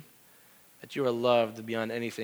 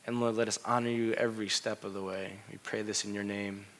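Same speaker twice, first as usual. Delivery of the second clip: closing prayer. Acted. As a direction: pray over the congregation gently. Pastor leads closing prayer.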